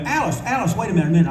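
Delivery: high, urgent mock call; retold calling out. Calling friend back in retold scene.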